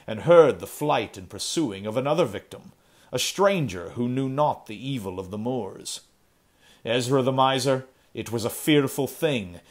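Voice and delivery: grave, measured storyteller's voice as Kane; stern Puritan Kane. Acted. Kane tells villagers of the fiend, grim and steady. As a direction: Kane warning the miser, lightly voiced. Kane recounts the moor killings.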